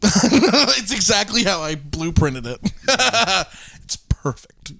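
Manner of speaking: laughing. Real, not acted. Laughing sarcasm about bad Christmas.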